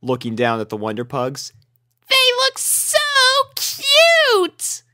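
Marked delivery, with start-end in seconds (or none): 2.1-4.8 very high, loud cute voice; high squealing filly; gushing filly. A narrator's reading. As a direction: gush like a little girl. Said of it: "cooed Sweetie Belle".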